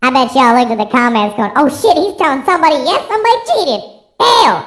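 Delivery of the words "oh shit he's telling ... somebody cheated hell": mock gasp. Viewers reacting to a cheating story.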